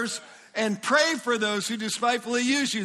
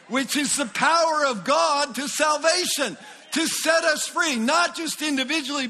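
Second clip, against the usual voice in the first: raised, excited preaching shout; yelling excitedly; 4 semitones higher than usual. Real, not acted. Preacher yelling the good news to the congregation, excited shout. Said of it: "I'm sorry I'm yelling at you".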